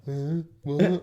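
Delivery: high, loud baffled huh; confused huh. Retold or imitated. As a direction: act out a blank confused look. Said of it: "Just looking at me like".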